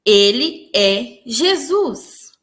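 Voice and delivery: slow, solemn otherworldly voice; a slow, solemn echoing voice; voice of Jesus. Retold or imitated. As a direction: speak it slowly as a divine presence. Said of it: "aquela voz falou".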